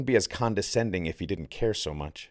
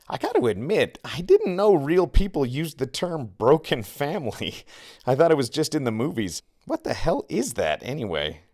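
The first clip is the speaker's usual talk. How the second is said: jeering laugh; 6 semitones higher, 4 dB louder than usual. A narrator's reading. Victor jeering at broken family.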